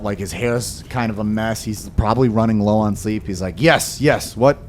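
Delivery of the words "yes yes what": strung-out shopkeeper. Acted. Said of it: "he kinda seems strung out".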